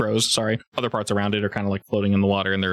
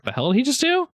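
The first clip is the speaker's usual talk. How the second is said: baffled ogre; 14 semitones higher than usual. Acted.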